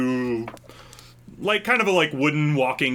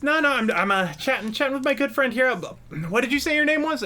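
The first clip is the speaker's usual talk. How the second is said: higher, quick smarmy guy; higher put-on voice of a pushy suitor; smarmy flirt; 10 semitones higher, faster than usual. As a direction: play the oblivious creep.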